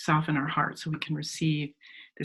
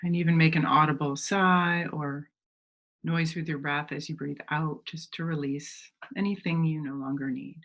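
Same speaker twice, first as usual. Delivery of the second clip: unhurried meditation guide, long pauses between phrases; measured phrases that invite visualizing; guided meditation. Real, not acted. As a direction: gently lead listeners inward, leaving space to breathe.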